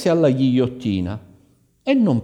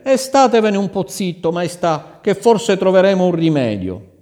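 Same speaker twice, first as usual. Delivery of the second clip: hushing the king; 8 semitones higher, 6 dB louder than usual. Acted. Viceroy hushes the wailing king.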